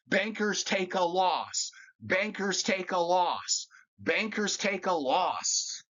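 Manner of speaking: each word laid down slowly and deliberately; slow emphatic repetition. Real, not acted. Closing his rant at bankers, slow and emphatic. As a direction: repeat it like a verdict, slowly. Hammering home his point.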